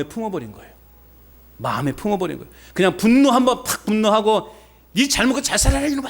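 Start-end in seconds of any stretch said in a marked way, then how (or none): 4.9-6.1 quick, high burst of play anger; mock angry outburst. Venting once at the one who cheated him, mock angry. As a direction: fire off a pretend scolding in one rush.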